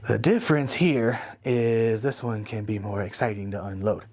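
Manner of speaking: talking around a flashlight; mouth propped open. Real, not acted. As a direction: speak with something held in your mouth. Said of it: "put the flashlight in my mouth".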